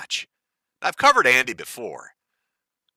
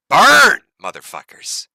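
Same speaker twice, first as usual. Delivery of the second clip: sudden high shouted taunt; taunting yell; 5 semitones higher, 11 dB louder, slower than usual. Real, not acted. Taunting Europeans sweating at home, loud high yell. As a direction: hurl it at them, loud and high.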